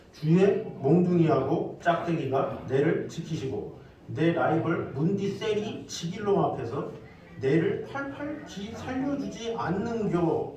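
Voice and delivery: loud, slow Gyeongsang dialect recitation. Shown as a demonstration. Preacher reads the Psalm to the congregation in Gyeongsang dialect. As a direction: declaim it in drawn-out Gyeongsang dialect. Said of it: "경상도 버전이 있어요".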